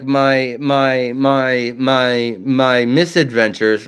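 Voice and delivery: stuttering on my; repeated stuttering start. Real, not acted. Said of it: "I stutter at times".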